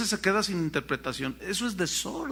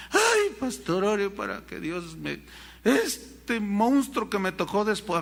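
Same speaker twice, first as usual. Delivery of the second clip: mock whining wife. Imitating a wife complaining to the pastor, whiny.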